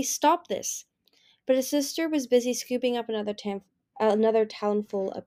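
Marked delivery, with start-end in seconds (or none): 0.0-0.9 high, partly voiceless plea; helpless plea. A narrator's reading. Turtle begging his sister to stop, helplessly. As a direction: plead with little power behind it. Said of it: "Turtle said helplessly".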